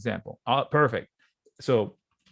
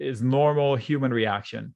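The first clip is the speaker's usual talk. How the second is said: ordinary talk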